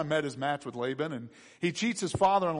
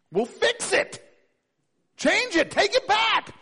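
much higher, a desperate plea; pleading Esau; 13 semitones higher, 4 dB louder, slower than usual. Acted. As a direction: beg the father to undo it, pitched way up. Esau begging his father.

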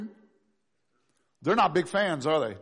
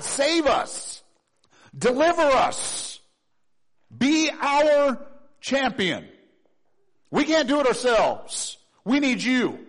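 high, loud, slow plea; crying out to God; 8 semitones higher, 5 dB louder, slower than usual. Acted. Preacher voicing the crowd crying out to God, loud and slow. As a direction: plead upward with all your voice.

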